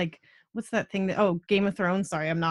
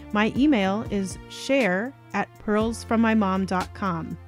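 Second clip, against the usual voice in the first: measured, clearly articulated host read; scripted podcast outro. Acted. Host thanks listeners for listening, scripted outro read. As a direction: read the sign-off evenly, with small pauses between items.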